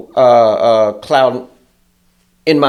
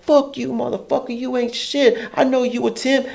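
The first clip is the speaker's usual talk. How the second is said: mock cursing coworker; 10 semitones higher, 5 dB quieter than usual.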